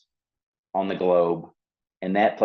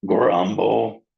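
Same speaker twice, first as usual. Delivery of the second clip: stomach grumble; 5 dB louder than usual. Shown as a demonstration. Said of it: "his stomach is making a noise".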